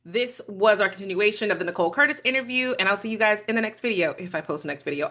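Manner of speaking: eating while talking; slurping lunch. Real, not acted. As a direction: talk between bites of lunch. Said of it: "sorry for the slurping and the, and the forking thing".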